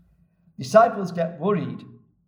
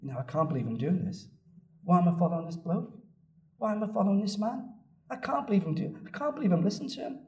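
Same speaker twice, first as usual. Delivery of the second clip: disbelieving grumble; 5 dB quieter, faster than usual. Retold or imitated. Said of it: "you must have been thinking".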